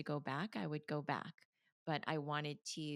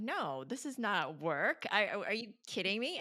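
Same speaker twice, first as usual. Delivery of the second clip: mock disbelief; 5 semitones higher, 6 dB louder than usual. Refusing the client's payment.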